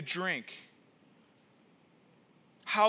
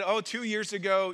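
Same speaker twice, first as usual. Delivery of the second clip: lightly attempted Puerto Rican accent; shaky stab at Puerto Rican English. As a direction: imitate a Puerto Rican man, half-heartedly. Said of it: "I'm not gonna do the accent anymore".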